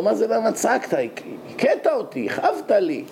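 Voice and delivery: mock-indignant protest, pitch jumping up. Slapped man to the Hasid who hit him, indignant. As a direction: protest the blow in acted disbelief.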